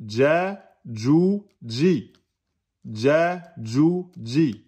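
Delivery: ja, ju, ji with a light thin j; thinned jim sound. Shown as a demonstration. Teacher drilling the letter jim, thin j. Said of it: "on va dire".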